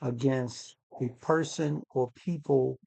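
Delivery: muffled voice, as if through a hand; speaking muffled, hand over mouth. Real, not acted. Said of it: "you sound a little muffled".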